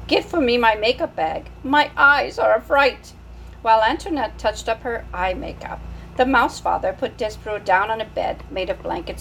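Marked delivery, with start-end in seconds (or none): 0.1-3.1 put-on French accent, higher and louder, fussy; French mother. French mother sending her son for makeup. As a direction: order the makeup bag in French-accented distress. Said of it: "She was a French mouse".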